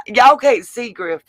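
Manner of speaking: can barely get the words out for laughing; laughing hard. Real, not acted. Streamer tells viewers they can't see Griff, laughing. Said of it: "I was laughing so hard".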